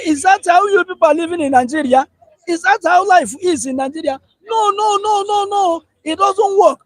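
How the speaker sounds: high-pitched mock outburst from the visitor from abroad; retold shouting. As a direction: pitch it up like an exasperated returnee. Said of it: "He shouted".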